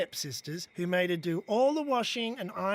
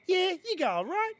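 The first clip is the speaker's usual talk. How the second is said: put-on high casual girl voice; 10 semitones higher than usual. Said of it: "And Cheryl's like".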